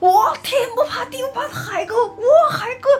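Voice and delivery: very high, loud, shrill shouting. Speaker retells what someone kept yelling for a long time, retelling a shout. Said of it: "喊了半天".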